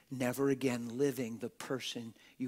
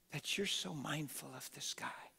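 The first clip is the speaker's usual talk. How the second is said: whispered psalm; 5 dB quieter than usual. Acted.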